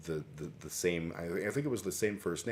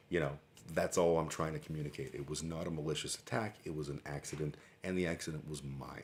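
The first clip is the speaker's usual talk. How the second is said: calm soothing apology. Retold or imitated. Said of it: "And I said in very calming, soothing tones".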